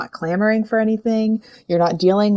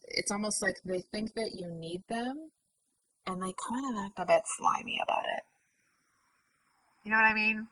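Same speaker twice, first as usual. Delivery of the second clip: whisper; 3 semitones higher, 14 dB quieter than usual. Real, not acted. Gossiping about a slimy suitor.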